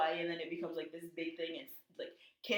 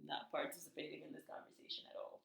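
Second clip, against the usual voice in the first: aloof Phaedra; 10 dB quieter than usual. Retold or imitated. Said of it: "Phaedra's in the corner".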